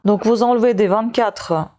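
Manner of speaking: talking with a pill in mouth; chewing while talking. Real, not acted. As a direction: speak around something in the mouth. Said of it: "c'est pour ça que vous m'entendez manger quelque chose".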